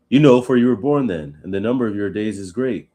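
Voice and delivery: sarcastic reading. Shown as a demonstration. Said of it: "he's being sarcastic".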